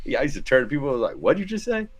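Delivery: retelling the dugout jab with mock outrage; mock disbelief. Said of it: "He, like, literally goes".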